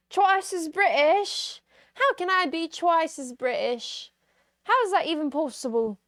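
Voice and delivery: high-pitched, astonished questioning; playful incredulity. Acted. Streamer asked to be twice as British, incredulous. Incredulous at double accent request.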